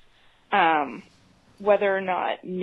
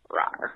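zombie growl; 6 dB quieter than usual. Shown as a demonstration. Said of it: "here's my zombie noise".

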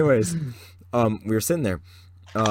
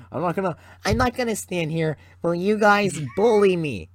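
mock hurt protest; 9 semitones higher, 4 dB louder than usual. Mock hurt after being teased.

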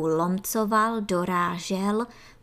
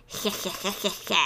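soft chuckle; 4 dB quieter than usual. Acted. Antlion father chuckling softly to soothe his son. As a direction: chuckle softly to calm him. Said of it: "konejšil táta svého synáčka".

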